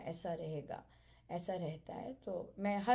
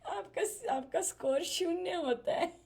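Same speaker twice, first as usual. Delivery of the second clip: higher and louder through laughter; laughing; 9 semitones higher, 5 dB louder than usual. Real, not acted. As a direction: crack up at your own joke. Joking about a zero score. (हँसते हुए, ऊँची आवाज़ में)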